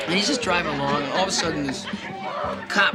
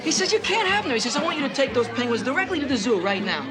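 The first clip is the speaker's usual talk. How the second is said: giggling through the punchline, loud and high; tipsy barroom joke, laughing the whole way; laughing joke telling; 3 dB louder than usual. Acted. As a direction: tell the penguin joke cracking up at your own words. Drunk joke teller laughing, shouting.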